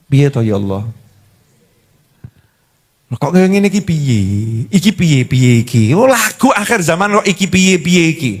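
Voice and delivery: low mock lament; keluhan orang mumet. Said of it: "Menggambarkan mumetnya orang-orang". (meratap bingung dengan nada rendah, setengah bercanda)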